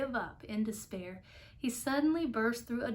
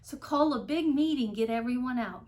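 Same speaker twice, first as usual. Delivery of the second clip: urgent calling; 3 semitones higher, 6 dB louder than usual. Acted. Horton urging the mayor.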